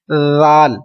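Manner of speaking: जाल said softly, without a harsh edge; gentle correct जाल; soft reading. Shown as a demonstration. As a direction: soften the sound in जाल. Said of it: "जाल को नरमी से पढ़ना है".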